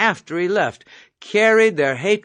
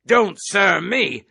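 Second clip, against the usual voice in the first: slow angry shout; 3 semitones higher, 3 dB louder, slower than usual. Acted. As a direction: shout it slowly at the cadet. Officer barks at the cadet.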